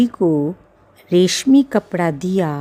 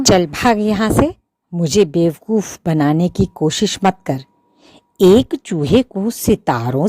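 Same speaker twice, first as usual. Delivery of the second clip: loud scolding; 6 dB louder than usual. Acted. Shopkeeper chases mouse away.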